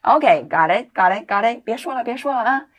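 quick "OK, got it, got it, got it" to cut someone off; impatient brush-off. Shown as a demonstration. Teacher imitating a friend telling a talker to stop. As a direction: rattle off "got it" to stop the chatter.

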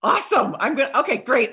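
punchy, charged-up delivery; loud, eager bursts; rhino energy. Shown as a demonstration. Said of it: "have some rhino energy and be like".

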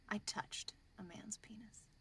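a slow, ashamed whisper; slow whispered confession. Retold or imitated. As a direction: drag it out under your breath. Second nun confessing in joke.

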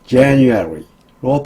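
"January" with lips pushed out on the J; strong JAN in "January", rest quick and rhythmic; rounded-lip J. Shown as a demonstration. Teacher showing learners how to say January, lips rounded on J. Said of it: "J는 입술을 내밀고 발음해야".

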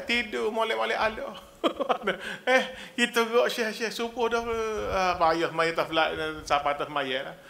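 normal talking voice

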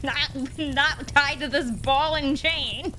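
laughing. Real, not acted. Laughing while playing.

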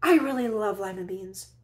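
very loud, high shout; cried out. Acted. Camilla stopping the old woman at the door, loud high shout. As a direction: call her back, loud and high. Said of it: "she cried".

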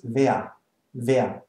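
"wer" with no R sound at the end. Shown as a demonstration. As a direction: say "wer" slowly, leaving the R silent. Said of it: "There's no R".

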